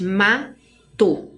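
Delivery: "mato" with MA as the strong syllable; stress on MA. Shown as a demonstration. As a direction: lean on "ma" in "mato", let "to" fall away. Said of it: "mais forte".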